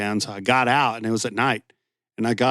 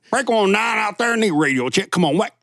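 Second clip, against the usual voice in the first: higher, twangy trucker CB call; redneck CB radio voice; 10 semitones higher than usual. Retold or imitated. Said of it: "I always went real redneck on the C B".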